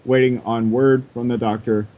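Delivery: calm sage reading with long pauses; Super Kami Guru voice. Acted. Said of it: "I will read this in my Super Kami Guru voice".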